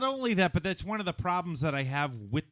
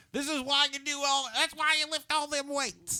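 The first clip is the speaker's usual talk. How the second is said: Michael Caine impression; 10 semitones higher, 3 dB quieter than usual. Friend hams up Alfred for laughs, mock Cockney Caine. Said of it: "It's a great Michael Caine".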